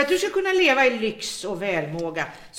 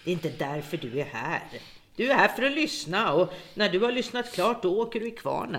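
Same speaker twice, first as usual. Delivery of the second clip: a soft, deadly warning to her captive; cold threat; 3 semitones lower, 6 dB quieter than usual. Acted. Captor turns on her prisoner.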